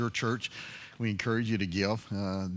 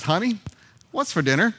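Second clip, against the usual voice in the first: calling out louder; 8 semitones higher, 5 dB louder than usual. Retold or imitated. Husband calls louder again.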